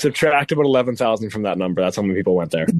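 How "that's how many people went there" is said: breathy whisper under the voice; whispered aside. Real, not acted. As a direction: drop to a secret whisper. Quiet aside after a joke.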